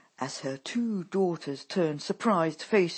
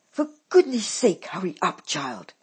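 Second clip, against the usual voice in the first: loud, higher impatient mother yelling at her daughter; roaring; 3 semitones higher, 9 dB louder than usual. A narrator's reading. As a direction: bellow the hurry-up. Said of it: "she roars at Dolly".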